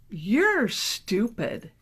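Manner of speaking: slow, cold put-down; cold insult. Retold or imitated. Attorney insulting a crying client, slow and cold. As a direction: drop it slowly and coldly. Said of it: "my attorney looks at me and says".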